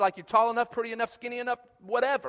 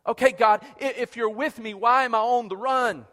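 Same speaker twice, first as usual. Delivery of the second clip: pleading Gideon; 3 semitones higher, 6 dB louder than usual. Acted. Preacher voicing Gideon's complaint.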